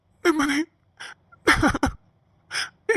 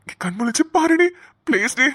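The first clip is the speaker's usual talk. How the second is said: crying plea. Acted. Weeping over unconscious lover.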